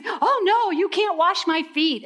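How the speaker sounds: laughing, high-pitched protest; mock-horrified Peter, half laughing. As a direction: chuckle through Peter's shocked refusal.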